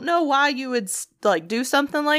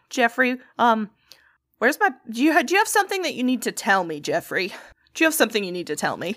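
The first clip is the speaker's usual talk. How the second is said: pointed first confrontation; faster than usual. Retold or imitated. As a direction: lean on him with fake patience, then rush the repeat. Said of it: "second attempt".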